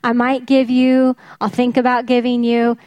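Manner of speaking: mock-tentative, lightly tossed-off offer; noncommittal. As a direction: voice a half-hearted maybe, at an easy pace. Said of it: "It's not a".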